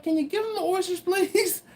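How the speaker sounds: high, laughing plea on please; half-laughing as you ask for the oysters; laughing request. Retold or imitated. Dad asking the shucker through a laugh. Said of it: "And I'm like".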